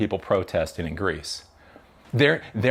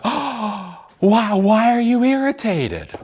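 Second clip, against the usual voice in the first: high, loud mocking whine; mock whiny Israel; 12 semitones higher, 5 dB louder, slower than usual. Mocking the Israelis' fake innocence, high whiny voice. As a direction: mimic their feigned innocence, high and nasal-free. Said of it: "And then they're like".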